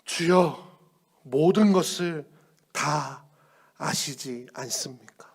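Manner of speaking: slow, breathy whispered answer; whispered confession. Acted. Peter answers Jesus in a humbled whisper.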